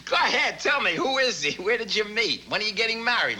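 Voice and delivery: high, eager run of questions; excited prying. Acted. Son quizzes mother about a supposed fiancé, excited.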